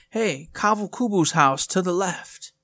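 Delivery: lightly voiced signpost, slow. Telling players about a hidden game clue, lightly voiced signpost. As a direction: read the sign out slowly.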